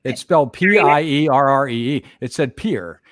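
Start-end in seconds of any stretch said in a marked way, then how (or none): 2.2-3.0 "Pierre" as one syllable, like pier; plainly pronounced "Pierre", rhyming with beer; local pronunciation. Shown as a demonstration. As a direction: say "Pierre" without the last R E, like "peer". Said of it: "if you wanna pronounce".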